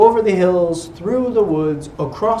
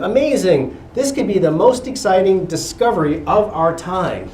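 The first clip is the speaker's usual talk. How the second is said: amazed professor; 4 dB louder than usual. Acted.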